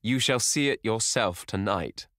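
slow, emphatic mock cry; cried. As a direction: cry it out with bitter pride. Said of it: "he cried".

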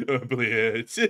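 low-key, deflated mock curse; imitated disappointment. Soldier disappointed before the guy hit ground, imitated letdown. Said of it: "he was so disappointed before".

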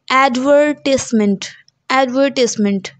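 British advertisement as ad-VER-tis-ment; British pronunciation. Shown as a demonstration. Teacher modelling for students, British pronunciation. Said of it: "the British pronunciation is".

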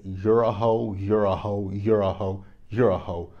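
loud mock yell, repeated insult; half-screamed imitation of a rant; retold scream. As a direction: imitate someone yelling accusations, punching each one. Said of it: "screamed at you all".

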